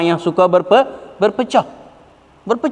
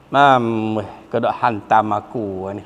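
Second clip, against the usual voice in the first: low, subdued mock complaint; mock grumbling; 11 semitones lower, 5 dB quieter than usual. Offended listener complains about being attacked, low grumbling.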